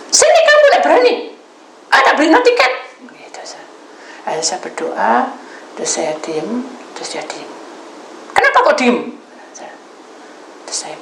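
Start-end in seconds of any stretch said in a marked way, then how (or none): 0.1-2.7 very high, loud furious dare; shouted challenge. Retold or imitated. Acts caller's shouted challenge. 8.3-9.1 high, loud retold outburst; angry questioning. Caller snaps at her silence.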